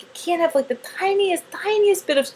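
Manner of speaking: mocking the gluten-free advisers; strict diet people. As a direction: mimic fussy rule-givers. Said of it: "They're like".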